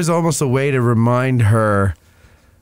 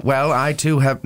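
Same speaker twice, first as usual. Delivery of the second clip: botched New England accent slipping into cartoon voice; Peter Griffin; 3 semitones higher than usual. Co-host trying a period accent, accidental cartoon New England voice. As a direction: attempt a Rhode Island accent and miss. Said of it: "Now I'm doing Peter Griffin".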